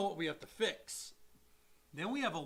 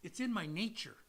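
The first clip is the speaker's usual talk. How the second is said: soft, low scorpion confession; lightly voiced scorpion, much softer; quiet menace; 3 semitones lower, 6 dB quieter than usual. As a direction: let it drop low and calm. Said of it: "And he says".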